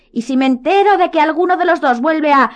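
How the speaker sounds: high, forceful warning; stern threat. A narrator's reading. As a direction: warn them sternly. McGonagall threatens, interrupted.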